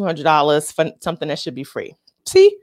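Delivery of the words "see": exclamation. Real, not acted.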